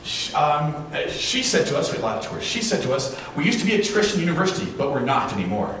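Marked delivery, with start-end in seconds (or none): 3.3-5.8 a light imitation of a proud tour guide, quick at first; hammed-up hint of pride; proudly. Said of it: "And she said it very proudly".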